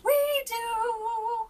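high, loud chorus of courtiers; court calls out. A narrator's reading. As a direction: answer together as the court. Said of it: "cried the court".

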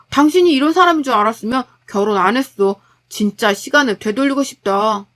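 lightly voiced, accusing husband; fed-up husband. Husband regretting marriage to his wife, fed up. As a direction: criticise her with mounting irritation.

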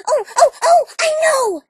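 loud eager oh oh oh; bouncing with a sudden idea; excited. Acted. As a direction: burst out with the idea.

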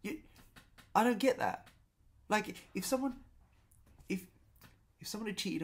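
high, loud incredulous what; shrill-free baffled outburst, voice shooting up; baffled disbelief. Retold or imitated. Diner at the next table, baffled by the order, high and loud. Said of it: "I'm thinking".

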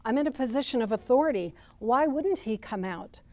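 loud, offended protest; indignant. Retold or imitated. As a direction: puff up with wounded pride. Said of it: "Perhaps he is thinking".

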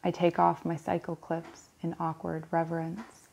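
even verse reading broken into short phrases; poem recitation. Acted. Reader reciting a poem about visiting a church, poem recitation. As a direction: set out each image with a small pause. Reads a Larkin poem aloud.

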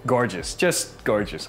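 slow, savoring admiration; gushing real estate agent. Real, not acted. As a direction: linger on each gorgeous. Agent admiring the balcony view.

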